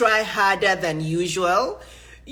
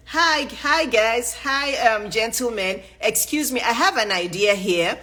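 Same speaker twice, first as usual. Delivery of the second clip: polite interruption. Shown as a demonstration. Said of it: "If they still don't listen".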